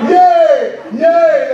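high, loud fan cheer; mock fan yell, high and drawn out; imitated sideline cheer. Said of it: "they were on the sidelines going".

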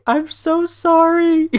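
high, slow, drawn-out apology; contrite apology. Real, not acted. Streamer apologizing to scolding partner, high pleading apology. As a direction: plead sorry in a small high voice.

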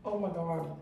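soft, low words through food; mouth full. Real, not acted. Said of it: "talking with food in my mouth".

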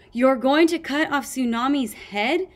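high, loud, alarmed squeak. A narrator's reading. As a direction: squeak it in horrified disbelief. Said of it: "Sunny squeaked".

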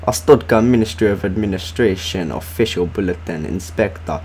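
a hint of an Eastern European bulletin voice; mock official accent. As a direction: read the bulletin like a stiff state official. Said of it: "I'm gonna stop reading like that now".

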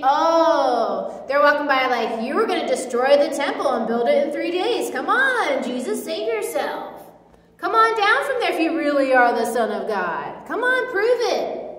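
sneering taunt, Come on, prove it; mocking crowd on the cross jeering. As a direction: jeer at a dying man.

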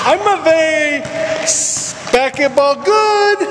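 high, slow, shouted dopey brag; goofy dumb voice. Pretend. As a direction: boast like a silly oaf, slowly.

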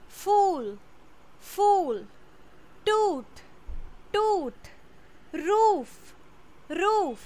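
each word said twice, slow and clear, long oo drawn out; careful classroom repeat-after-me delivery; teacher modelling pronunciation. Shown as a demonstration. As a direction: drill the long oo sound for students to repeat. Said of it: "इसका pronunciation पे ध्यान देना".

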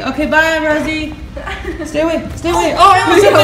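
loud, very high voice to a puppy; high pet-talk goodbye. Real, not acted. Owner leaving puppy at the door, high excited pet talk. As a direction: squeal a goodbye while shooing the dog back.

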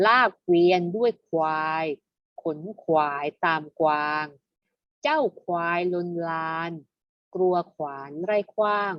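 measured poem recitation, phrase by phrase; verse reading. Shown as a demonstration. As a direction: read it as rhymed verse, pausing after each line. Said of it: "มาอ่านเป็นบทร้อยกลองกันดีกว่า". (อ่านเป็นบทร้อยกลอง เว้นจังหวะทีละวรรค)

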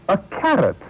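pompous mayor outraged. Acted. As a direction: disbelief at a carrot.

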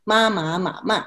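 ma in the four Mandarin tones; tone demonstration. Shown as a demonstration. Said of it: "to pronounce the tones".

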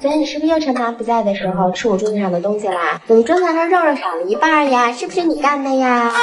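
sweet voice for a scolding; gentle tone. Shown as a demonstration. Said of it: "再用温柔的语气说他犯的错". (用温柔的语气说他犯的错)

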